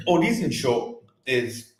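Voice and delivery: slightly winded, catching breath. Real, not acted. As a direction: talk while still short of breath. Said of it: "I'm just catching my breath".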